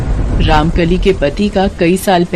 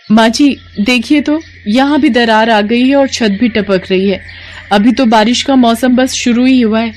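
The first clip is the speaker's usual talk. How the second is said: slightly higher, anxious daughter-in-law voice; a worried young wife pleading with her mother-in-law; worried young bahu; 4 semitones higher than usual. Acted. (चिंतित बहू की आवाज़)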